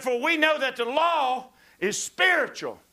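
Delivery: loud, rising preacher's cadence; preaching. Acted. Preacher reading scripture to the congregation, loud and fervent. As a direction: preach it out with full force.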